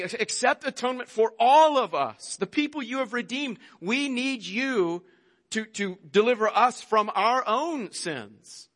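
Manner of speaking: a lightly voiced plea of the people to God, slowing on we need you; earnest prayer voiced with a touch of pleading, held back. Preacher voicing the people begging God for atonement, mild plea. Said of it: "But they're saying".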